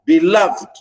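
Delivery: beloved with short be and strong LOVED; stress on second syllable. Shown as a demonstration. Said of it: "stress where la".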